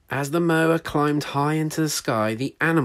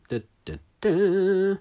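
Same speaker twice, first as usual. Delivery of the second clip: dramatic suspense; 6 semitones higher, 4 dB louder, slower than usual. A narrator's reading. Suspense build-up.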